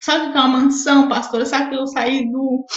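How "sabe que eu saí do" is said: a real catch of tears, slowed down; holding back tears, slowly; voice breaking. Real, not acted. Testifying to the pastor about leaving the favela, voice breaking. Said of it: "Eu tô chorando hoje".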